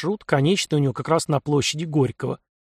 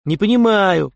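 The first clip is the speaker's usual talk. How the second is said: growled; 5 semitones higher, 6 dB louder than usual. A narrator's reading. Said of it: "прорычал я ему в лицо".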